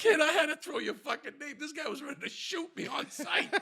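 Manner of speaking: high, loud frantic explaining; re-enacted panic. Driver explaining to his buddy afterwards, loud and frantic. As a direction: blurt it out as if just escaped.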